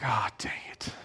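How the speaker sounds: whispered, half-laughing defeat; resigned whisper. Retold or imitated. Pastor realizing God finally got him, whispering. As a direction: breathe it out like you've been caught.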